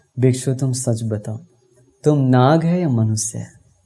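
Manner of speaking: ordinary delivery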